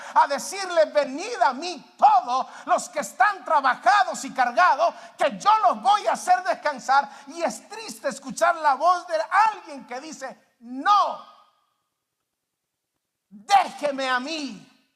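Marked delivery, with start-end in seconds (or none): 0.9-7.1 loud, high, ringing scripture quote; proclaimed divine call. Acted. Preacher voices God to the burdened, proclaimed call. Quoting God's call at full force. 10.6-14.9 loud, slow, spaced-out rebuff; defiant refusal. Acted. Burdened person refusing God's rest, defiant refusal. Someone refusing God, acted.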